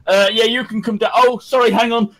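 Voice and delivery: fast, high and hurried; juggling calls in a rush; busy switchboard operator. Retold or imitated. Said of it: "that one guy that is there saying".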